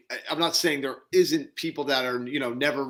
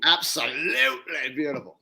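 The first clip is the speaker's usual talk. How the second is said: nature documentary narrator. Retold or imitated. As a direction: marvel like a wildlife host. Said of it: "the way he says it".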